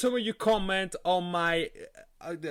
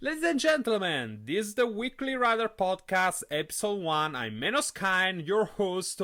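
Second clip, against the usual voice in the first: lightly put-on announcer, pitched up; show host intro; 4 semitones higher than usual. Real, not acted. Host introduces his podcast's first episode, in a higher announcer voice. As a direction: lift it into a show-opening announcement.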